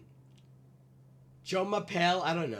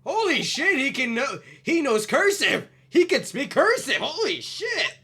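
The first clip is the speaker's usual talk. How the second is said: louder, higher astonished exclaim; mock shocked excitement; excited amazement; 5 semitones higher, 6 dB louder than usual. Real, not acted. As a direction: gasp it out in amazement.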